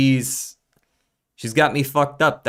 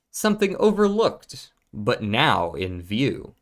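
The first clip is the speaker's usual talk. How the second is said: dramatic riddle reading. Pretend. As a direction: read it like a mysterious game oracle. Reads the rhyming riddle aloud.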